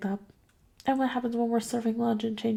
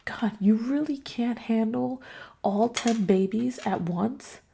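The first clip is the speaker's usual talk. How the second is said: higher, sarcastic mock of a nagging parent; mocking complaining parent; 4 semitones higher than usual. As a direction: ham up the know-it-all parent with a whisper at first. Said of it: "And people who think, like".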